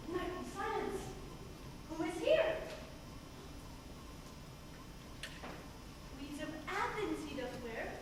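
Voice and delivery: soft, hushed voice over sleepers; hushed spell. Acted. Puck sneaks over sleeping lovers.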